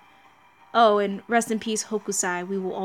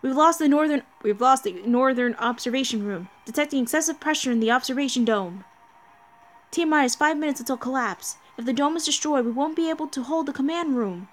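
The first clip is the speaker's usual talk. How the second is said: higher, urgent emergency report; lightly voiced crisis crew; 6 semitones higher than usual. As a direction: read it like a bridge crew in alarm. Voices anime crisis dialogue.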